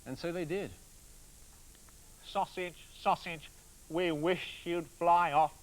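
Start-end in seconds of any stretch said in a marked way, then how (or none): 2.2-5.5 glum wish. Acted. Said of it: "said the man glumly".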